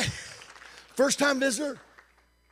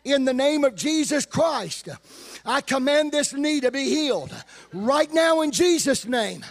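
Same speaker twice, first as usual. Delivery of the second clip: commanding prayer; 5 semitones higher, 4 dB louder than usual. Retold or imitated. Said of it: "and he said".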